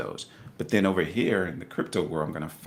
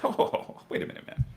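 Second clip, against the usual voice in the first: hushed self-talk; 14 semitones higher, 4 dB quieter than usual. Retold or imitated. Quotes own moment of second thoughts.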